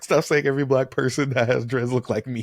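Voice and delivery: fed up with being mistaken for others; annoyed rapper. Retold or imitated. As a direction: a rapper correcting fans, lightly imitated and exasperated. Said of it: "It's like".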